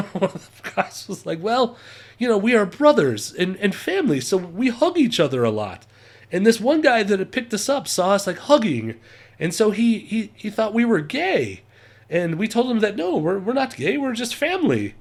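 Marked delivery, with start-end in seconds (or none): 1.4-5.9 amateur German accent impression; mock German-accented English; terrible German accent. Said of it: "my terrible German accent". 6.3-14.9 higher, mock German accent; hammed-up German-accented English; terrible German accent. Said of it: "I apologize for my terrible German accent".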